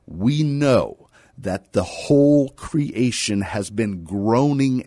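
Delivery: measured, deliberate Bible reading; scripture reading. Acted. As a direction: read scripture aloud, weighting the key words. Reads scripture aloud to listeners.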